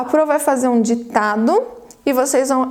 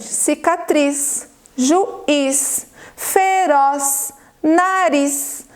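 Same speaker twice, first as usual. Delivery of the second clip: slow word list from "Cicatriz" to "atriz", each last syllable drawn out; teacher stretching "juiz", "feroz", "nariz" toward the final syllable; stressed final syllables; much slower than usual. Shown as a demonstration. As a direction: sound out each word, leaning on its ending as in "Cicatriz". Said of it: "toda sílaba tônica é a última".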